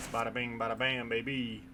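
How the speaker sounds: lightly hammed-up Italian Mario voice; bad Mario accent. Gamer hamming up Mario while fixing a car, bad Italian accent. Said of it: "my accents are terrible".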